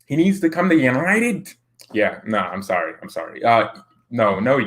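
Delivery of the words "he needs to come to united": British accent, voice raised. Shown as a demonstration. Streamer redoing his transfer plea, mock British accent. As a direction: put on an exaggerated British accent. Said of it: "let me do it in a British accent".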